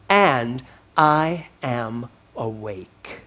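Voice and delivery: deliberate, emphatic reading with weighty pauses; measured declamation, slowing right down at the close; dramatic read-aloud. Acted. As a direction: read it out like a manifesto, landing each phrase. Reads a posting aloud to congregation.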